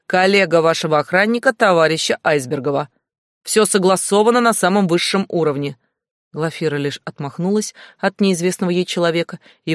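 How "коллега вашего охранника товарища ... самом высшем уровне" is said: громогласно. Acted. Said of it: "громогласно заявил".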